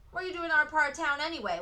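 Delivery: demanding. A narrator's reading. Boy confronting Frances, fast demanding challenge. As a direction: demand an answer from the stranger. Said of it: "one of the boys demanded".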